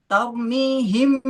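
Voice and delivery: slow "Tarmihim" with a firm, tight final m; wrong izhar reading. Shown as a demonstration. Teacher demonstrates the mistake to students, wrong izhar reading. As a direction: press the m closed at the end of "Tarmihim". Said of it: "kalau dibaca izhar ya, ini yang salah".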